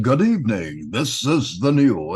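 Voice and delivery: lightly put-on newsman read; mock broadcast opening; anchor voice again. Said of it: "Do that again".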